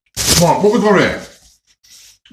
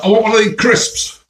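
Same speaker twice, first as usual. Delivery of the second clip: higher-pitched attempt at an English accent; best English voice; 5 semitones higher than usual. Customer asking for crisps in the shop, in his best English voice. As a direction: put on your best Leicester English. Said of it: "in my best English voice".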